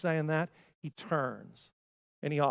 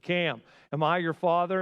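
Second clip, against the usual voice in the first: calling out; 5 dB louder than usual. Retold or imitated. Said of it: "I yelled over".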